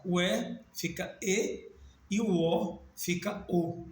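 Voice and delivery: slow, with "E" and "O" first open, then closed; vowel demo. Shown as a demonstration. Teacher showing how southerners hear the vowels, slow demo. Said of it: "Para as pessoas que moram no sul".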